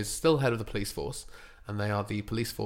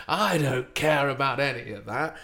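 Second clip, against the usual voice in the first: De Niro voice; 3 semitones higher than usual. Retold or imitated. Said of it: "Robert De Niro goes".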